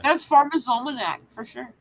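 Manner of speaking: talking with a mouthful of crackers; words around a bite of crackers; mouth full. Real, not acted. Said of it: "I have crackers in my mouth".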